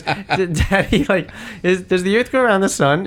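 put-on high small girl voice; high mock child voice; little daughter. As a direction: imitate a curious little girl. Daughter asking, retold.

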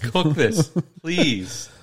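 put-on pleading voice. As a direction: beg like a cartoon character. Mock pleading voice.

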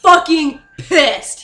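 mock fury. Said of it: "the Majestic is pissed right now".

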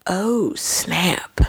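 hushed whisper. Retold or imitated. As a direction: breathe it out secretly. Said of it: "being like".

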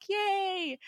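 high squealed yay, delighted; a real burst of glee at a favourite character; excited cheer. Real, not acted. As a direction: cheer like a happy fan. Cheering Deathlok's arrival.

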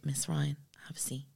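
lightly voiced doctor, dropping to a hush; mimicking the doctor. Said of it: "I'm pure mimicking him".

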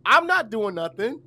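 high-pitched, exasperated mock yell; retold yelling. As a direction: yell at the cop in the retelling, voice shooting up. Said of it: "And so I'm yelling".

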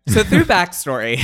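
loud, high burst; over-caffeinated. Real, not acted. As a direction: blurt it out, wired on caffeine. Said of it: "I've had so much caffeine".

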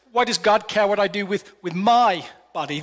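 "my" in "with my body" pressed and set apart; stress on MY. Shown as a demonstration. Preacher shows the congregation the ownership twist with stress on my. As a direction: lean into "my" as in ownership. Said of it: "How about this little twist?".

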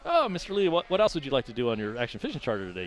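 bright salesman voice to a client; mock charter host. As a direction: play the overly polite tour guide. Mock customer-service host voice.

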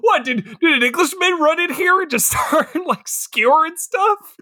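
high, bewildered mock question; surprised. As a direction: act baffled, pitch way up.

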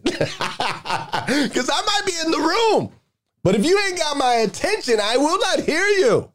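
very high-pitched, laughing protest; comic exasperation. Acted. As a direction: squeak out a mock-exasperated complaint. Comic gripe about wife, laughing.

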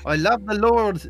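high, loud hammed-up Australian accent; over-the-top Australian accent from a British speaker; fake Australian accent. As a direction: ham up a bad Australian accent for laughs. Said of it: "British trying to do Australian".

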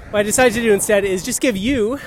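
huffing and puffing uphill; winded from pedalling up a hill; out of breath. Real, not acted. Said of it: "I'm huffing and puffing".

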